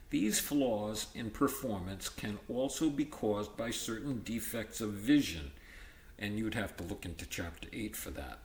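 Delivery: steady textbook read-aloud; reading from the book. Acted. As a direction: read the passage to the class. Reads textbook aloud to class.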